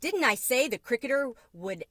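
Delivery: loud, heated accusations, peaking on firebug; Mama blames the cricket in front of Mario; angry reproach. A narrator's reading. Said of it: "Mama's flood of reproaches".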